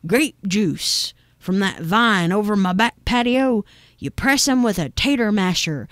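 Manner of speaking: lightly voiced folksy neighbor, lilting a bit; nosy old neighbor. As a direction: explain a family recipe with a light touch of country character. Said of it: "She said".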